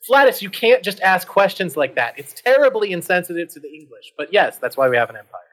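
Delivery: mildly indignant British reproof; charming British accent. Acted. British friend chiding the hero, charming British accent. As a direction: chide in a put-on British accent. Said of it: "in his charming British accent".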